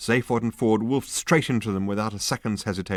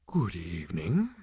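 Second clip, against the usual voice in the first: lowing animal voice. A narrator's reading. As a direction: greet them like a contented cow. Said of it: "it lowed".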